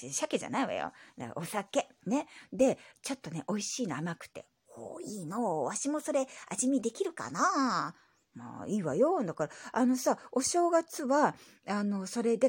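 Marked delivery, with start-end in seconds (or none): 4.7-7.9 lightly voiced old grandpa; grumbly old grandpa reply; old man voice. Grandpa character voice.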